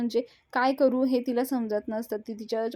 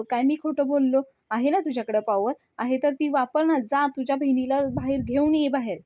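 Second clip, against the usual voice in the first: angry taunt; 4 semitones higher, 5 dB louder than usual. Acted. Vivan keeps taunting Mahesh.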